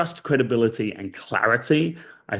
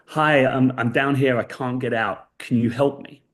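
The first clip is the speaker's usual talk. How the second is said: lightly calling up for help; a storyteller's toned-down call from below; mild mock shout; 3 semitones higher than usual. Man in a hole appeals to a passing priest, mild mock shout. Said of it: "shouts up to the priest".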